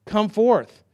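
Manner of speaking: acted shout to call someone forth; crying out. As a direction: cry it out as a summons. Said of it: "Jesus cries out and says".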